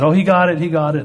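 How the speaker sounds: imitating the crowd's joy; excited crowd. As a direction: cheer it like a relieved congregation. Crowd declares he got it.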